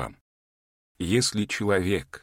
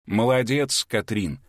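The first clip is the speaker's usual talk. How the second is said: exclaiming. Acted. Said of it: "воскликнул хранитель".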